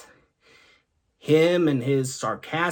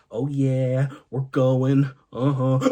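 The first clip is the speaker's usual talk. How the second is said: easygoing groove; 2 semitones lower, slower than usual. Retold or imitated. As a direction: chant along, relaxed and unbothered. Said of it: "It went a little something like this".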